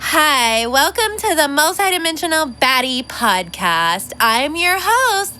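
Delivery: mock polished podcast host, slowing to a high drawn-out finish; sugary mock podcast host greeting. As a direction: parody the fake-cheerful host intro. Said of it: "I don't wanna put on the fucking voice".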